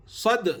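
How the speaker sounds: صد with the final د bounced; qalqala echo. Shown as a demonstration. Teacher demonstrating qalqala on صد. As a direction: let the د of صد rebound. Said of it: "قلقلہ ہونا".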